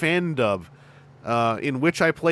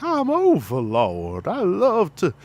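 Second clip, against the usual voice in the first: high, slow, hammed-up southern foghorn drawl; Overlord foghorn voice; 6 semitones higher, slower than usual. Shown as a demonstration. Voice actor demoing his Overlord character voice, hammed-up southern foghorn drawl. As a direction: do a big Foghorn Leghorn southern boom. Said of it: "when I do the Overlord voice".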